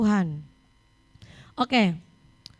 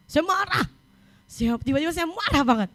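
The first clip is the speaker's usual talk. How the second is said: high-pitched, exasperated retelling; retold anger; 5 semitones higher than usual. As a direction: act out having been suddenly furious. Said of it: "Oh, saya marah". (menirukan rasa marah dengan nada tinggi)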